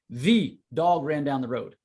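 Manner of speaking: "The" stressed at the start of the phrase. Shown as a demonstration. Coach showing emphasis changes meaning, stressing "The". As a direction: lean on "The". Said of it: "Here's what I mean".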